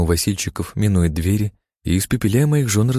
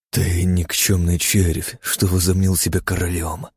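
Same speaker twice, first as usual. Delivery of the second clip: menacing hiss; 3 semitones lower than usual. Acted. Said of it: "прошипел я".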